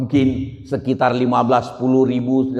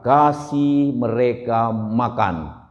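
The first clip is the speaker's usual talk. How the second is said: calm command; 3 semitones lower, much slower than usual. Retold or imitated. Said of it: "Tuhan Yesus bilang".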